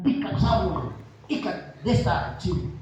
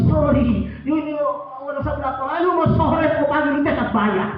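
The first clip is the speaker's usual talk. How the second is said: mock foreigner; 4 semitones higher, 4 dB louder than usual. Foreigner scolds fish seller in story.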